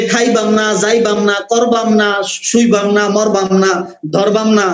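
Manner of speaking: Mymensingh dialect. Shown as a demonstration. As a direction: rattle off the -bam endings like a Mymensingh local. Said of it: "ময়মনসিংহের লোকদের সাথে কথার মধ্যে".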